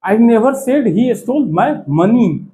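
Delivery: "money" given the weight, read slowly; stress on money. Shown as a demonstration. Teacher stressing "money" for students, slow and deliberate. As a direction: point the sentence at "money". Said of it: "मनी पे अब जोर दिया जा रहा है".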